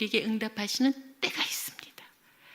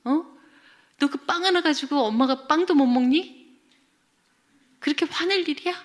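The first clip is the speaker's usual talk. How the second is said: higher, louder acted scolding; angry mother; 5 semitones higher, 6 dB louder than usual. Mother scolds child for sulking over bread, angry. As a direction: tell the child off indignantly, pressing each question. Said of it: "딱 이제 그렇게 화를 내는 거예요".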